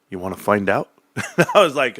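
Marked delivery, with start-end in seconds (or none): 0.1-0.9 a hint of a menacing big guy, lower; low challenge, lightly played; mock tough guy. The huge Brit answers the fight question, mock threatening. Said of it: "he looks at me and goes".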